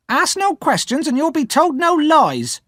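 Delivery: high, loud curt snap; snapped. Acted. Sister refusing Pip's question, sharp snap. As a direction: cut him off sharply. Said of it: "my sister snapped".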